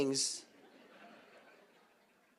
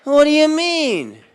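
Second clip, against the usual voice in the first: high, loud, slow whine; high, louder, slow kid protest; outraged kid; 10 semitones higher, 11 dB louder, slower than usual. Retold or imitated. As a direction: drag out the complaint. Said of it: "I was like".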